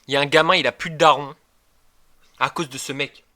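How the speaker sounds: loud, worked-up joking rant; excited rant. Real, not acted. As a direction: rant like it's a scandal. Streamer ranting, mock accusation.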